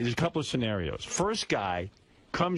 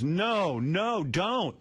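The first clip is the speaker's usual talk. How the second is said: higher-pitched pretend protest; mock pleading; 6 semitones higher, much slower than usual. Woman refuses to be chloroformed again, mock pleading. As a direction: imitate a woman begging him to stop.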